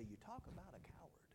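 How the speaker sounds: a bitter unvoiced whisper; whispered scorn. Pastor whispering scorn at the husband, unvoiced. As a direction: hiss the word coward under your breath. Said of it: "I wanted to go down and say".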